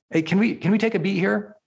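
calm, caring question; gentle coaching check-in. Shown as a demonstration. Coach on Zoom to client, calm caring check-in. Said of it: "I say it all the time".

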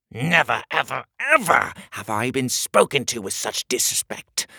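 affronted king scolding an offender; outraged rebuke. Acted.

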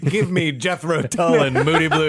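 laughing. Retold or imitated. Mock quote while laughing.

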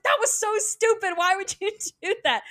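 high hammed-up telling-off with a laugh; mock exasperation. Dance coach scolding mom over tickets, mock exasperation. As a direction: imitate an exasperated scolding, amused underneath.

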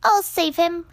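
high, loud squeaky hero; squeaky squirrel. A narrator's reading. Squirrel offering to rescue the duck, squeaky. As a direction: squeak it out boldly. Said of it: "squeaked the squirrel".

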